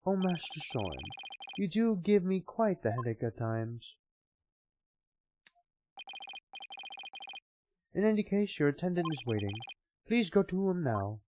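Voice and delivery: put-on slow, stately old butler; slow formal butler. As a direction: speak with slow dignity. Butler and Soren voices.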